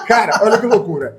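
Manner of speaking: laughing as he speaks; amused laugh in the voice. Real, not acted. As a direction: chuckle through the words. Laughing at the crazy story.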